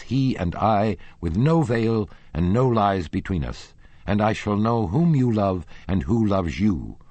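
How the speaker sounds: a jealous lover shouting down his rival; losing his temper. Acted. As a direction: rage at her, building accusation. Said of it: "at once lost his temper".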